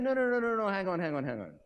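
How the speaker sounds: high, loud no no no; stopping the crowd. Acted. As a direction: cut off the cheering crowd. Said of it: "He said".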